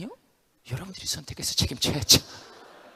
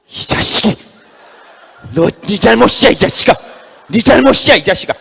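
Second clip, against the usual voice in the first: loud, high furious yelling; furious shout; 6 semitones higher, 15 dB louder than usual. Acted. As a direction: scream blame at the other hand. Left hand yelling at right. (오른손을 탓하며 고래고래 소리치는 왼손)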